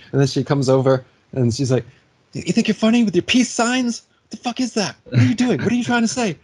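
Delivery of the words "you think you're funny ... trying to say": imitated angry rant. Angry driver confronts him.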